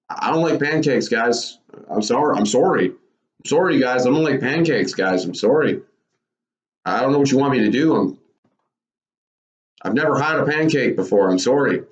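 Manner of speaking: mock-sheepish whining about pancakes; Kevin Owens impression. Podcaster imitates Kevin Owens refusing pancakes, lightly voiced. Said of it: "That's my Kevin Owens impression".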